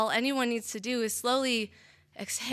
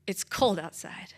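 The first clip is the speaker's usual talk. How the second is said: hushed ending; 6 semitones lower, 7 dB quieter than usual. Acted. Boyfriend's final words over the felled tree, hushed whisper. Chilling last lines of poem.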